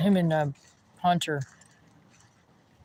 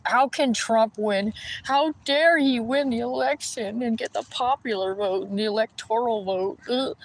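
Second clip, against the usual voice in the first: slow, higher mocking voice of an outraged opponent; mocking whine; 4 semitones higher, slower than usual. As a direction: drag it out like a sulking sore loser. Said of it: "They're like".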